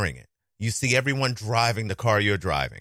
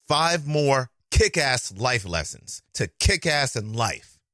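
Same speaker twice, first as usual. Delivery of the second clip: slow careful retry; 2 semitones higher, slower than usual. Shown as a demonstration. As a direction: kick stressed in slow reading. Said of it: "Still sounds like fighting words".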